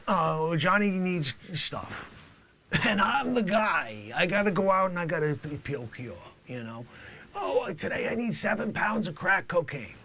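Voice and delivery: high, loud brash drug dealer; shouty comic dealer character; loud hammy dealer. Acted. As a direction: play the swaggering dealer big.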